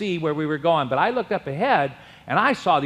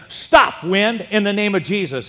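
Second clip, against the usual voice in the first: loud raised command, fading on the name; commanding the wind; 2 semitones higher, 3 dB louder than usual. Retold or imitated. Preacher in a storm commands the wind, loud rebuke. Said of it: "I said to the wind".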